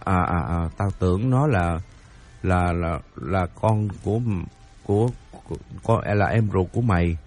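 low, softened, halting backtrack; hesitant stammer. Acted. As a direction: fumble for words, dropping the voice. Friend stammers, corrects himself. (ấp úng, hạ giọng chữa lời)

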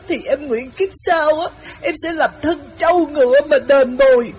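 imitating sobbing. Wife imitating the weeping girl to the men, tearful. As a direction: mimic a girl crying her heart out. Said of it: "nó khóc tấm tức tấm tưởi".

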